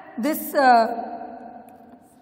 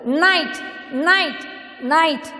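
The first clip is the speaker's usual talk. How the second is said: "night" repeated as one unbroken beat, with pauses between; "night" as one separate, undivided word each time; one syllable; slower than usual. Shown as a demonstration. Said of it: "It is not separating".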